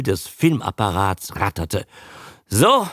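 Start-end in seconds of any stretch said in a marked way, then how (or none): 2.5-2.9 high, slow gloating; vengeful Judy. A narrator's reading. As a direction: announce it with drawn-out, spiteful satisfaction. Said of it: "verkündete Judy rachsüchtig".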